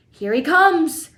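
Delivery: slow, high loud yell; excited yell. A narrator's reading. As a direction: announce his arrival. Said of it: "yelled Mister Wonka".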